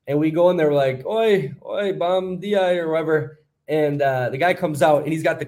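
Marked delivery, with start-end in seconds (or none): 1.1-2.8 mock call-out in a raised pitch; calling a greeting. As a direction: imitate hailing someone as you walk in.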